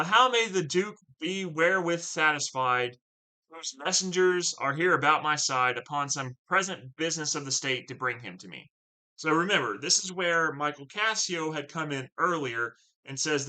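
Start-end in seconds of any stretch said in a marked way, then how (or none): 0.0-8.7 slightly raised, confident reading; Othello's calm challenge. Acted. Othello questioning Brabantio about the Duke, confident reading. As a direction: pose the question coolly.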